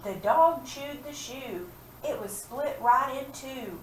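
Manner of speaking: teacher reads the completed rhyme; slow read-aloud. Shown as a demonstration. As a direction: read the finished rhyme slowly. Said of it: "what word could we put there".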